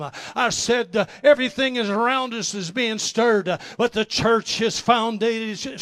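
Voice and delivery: loud, rousing preacher's cry; preaching at full force. Acted. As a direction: preach it out to the congregation, building fire. Preaching the sermon's climax.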